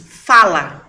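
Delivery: loud, punched single word fala; emphatic command. Real, not acted. Mother insisting her children speak up, loud fala. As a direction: bark out fala as a firm order. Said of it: "o que eu tenho trabalhado".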